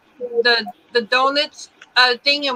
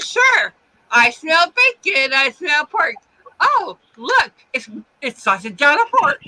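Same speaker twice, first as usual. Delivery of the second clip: defiant taunt; 2 semitones higher than usual. Retold or imitated. Teen repeating the taunt to the cop, defiant and cheeky. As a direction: throw it back at him, daring.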